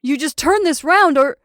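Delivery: loud, high threat, cut off; violent threat. A narrator's reading. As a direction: threaten and break off. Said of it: "He took a violent step".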